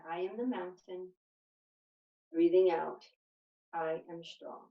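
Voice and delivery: calm breath-paced mantra, pausing after each phrase; guided meditation. Real, not acted. Yoga teacher leading a short standing mountain meditation, calm and measured.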